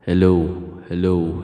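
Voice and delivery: full, present mic-test hello; low, even sound check near the mic; close to the mic. Shown as a demonstration. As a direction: say hello right up at the microphone. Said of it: "i-try naman natin yung, ah, palayo ng palayo".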